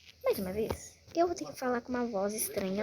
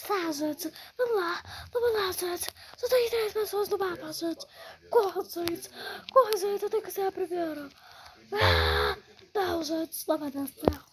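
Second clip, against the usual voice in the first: strange throat voice; 3 semitones higher than usual. Pretend. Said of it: "eu não vou falar mais assim".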